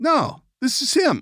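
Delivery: put-on very high, slow voice of a five-year-old girl. Retelling a phone call, the speaker voices the man who answered, mimicking a man's little-girl voice. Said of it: "you sound like a five-year-old girl".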